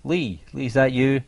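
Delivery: high, questioning acted call. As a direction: call uncertainly for someone out of sight. Acting out character calling for Lee.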